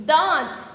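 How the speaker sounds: दांत with nasal आँ, air through nose and mouth together; nasalized vowel. Shown as a demonstration. Teacher shows chandrabindu on दांत, nasal vowel. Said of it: "हवा निकलेगी हमारे नाक तथा मुंह से".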